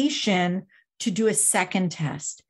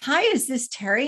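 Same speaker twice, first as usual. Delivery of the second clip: mock, very friendly, warm voice; 3 semitones higher than usual. Retelling a phone call from an unknown number: imitating a friendly caller. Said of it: "she sounds real friendly".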